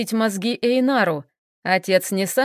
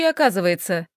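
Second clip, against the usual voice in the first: usual speaking voice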